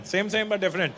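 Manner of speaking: put-on lightly Indian-accented hawker brushing off doubts; insist, in a mock Indian accent; mock Indian seller. Vendor answers the correction, insisting.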